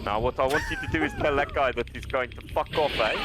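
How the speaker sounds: put-on South African accent, playful; hammed-up South African voice. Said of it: "I don't do the South African very much".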